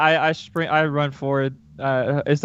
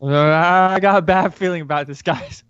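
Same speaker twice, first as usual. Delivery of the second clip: higher, drawn-out mock worry; uneasy character; 4 semitones higher, 3 dB louder than usual. Reluctant adventurer warns the party outside the forge, playing uneasy. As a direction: hesitate aloud, stretching the first words.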